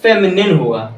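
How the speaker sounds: फेमिनिन ending in a short "nin", not "nine"; teacher modelling फेमिनिन as "fe-mi-nin"; correct pronunciation. Shown as a demonstration. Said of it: "फेमिनाइन ना हो करके".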